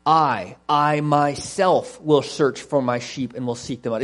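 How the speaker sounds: "I, I myself" hit firmly; emphatic weight on "I myself", as God's own promise; emphatic stress on I. Acted. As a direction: lean hard on each "I" and "myself". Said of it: "It's very emphatic".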